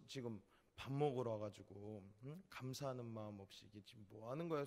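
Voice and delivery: quietly soothing. Retold or imitated. Uncle Manho calming the rowdy drunk, gently firm. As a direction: settle a drunk man down without raising the voice. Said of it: "조용히 달랬습니다".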